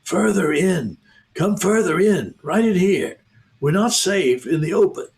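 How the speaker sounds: a nervous beaver hurrying them in; hoarse throaty whisper. Acted. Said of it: "in a hoarse, throaty whisper".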